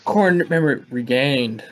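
Halo announcer voice. Pretend. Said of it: "In, like, the Halo announcer voice".

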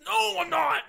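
loud high defensive shout; indignant denial. Retold or imitated. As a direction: snap back defensively. Kid denying to brother.

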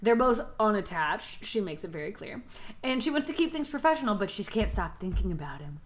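measured, deliberate storyteller delivery; story recap narration. A narrator's reading. Host recapping the book for co-hosts, measured narration. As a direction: recount the plot, lingering on key phrases. Retells the book's plot.

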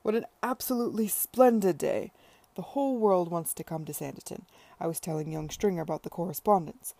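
loud, rushing, jubilant; elated enthusing. Acted. Tom boasting to Charlotte about bookings, loud and elated. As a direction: gush about the full season.

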